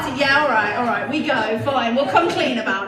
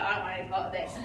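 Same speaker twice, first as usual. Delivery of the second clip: teddy bear; 6 semitones lower, 10 dB quieter, much faster than usual. Retold or imitated. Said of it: "He's like".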